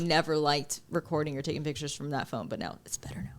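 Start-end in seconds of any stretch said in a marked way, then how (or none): 2.5-3.3 soft unvoiced aside; whispering. Real, not acted. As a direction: whisper it under the breath.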